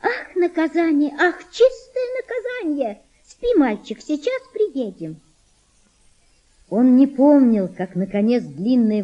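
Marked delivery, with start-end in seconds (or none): 0.0-5.2 high girl's voice with a mock grown-up sigh; girl sighing like mother. Girl imitating her mother's sigh to the boy, high and sighing. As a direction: copy mother's weary sigh. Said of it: "прибавила со вздохом по примеру матери".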